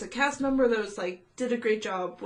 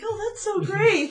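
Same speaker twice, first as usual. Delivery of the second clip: laughing imitation; 11 semitones higher than usual. Mimicking manager's enthusiasm.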